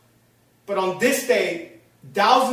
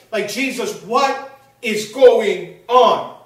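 drawn-out, louder disbelief; bewildered plea; 5 dB louder, slower than usual. Acted. Preacher voicing shocked disciples to Jesus, bewildered. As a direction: stretch out the question in loud bewilderment.

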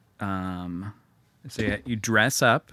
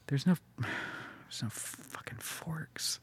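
deflated; 4 semitones higher, 11 dB quieter, much slower than usual. Real, not acted. Finds no forks on list.

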